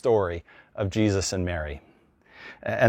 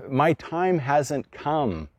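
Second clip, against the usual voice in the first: slow weary reply; 4 semitones higher, much slower than usual. Retold or imitated. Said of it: "And so he says".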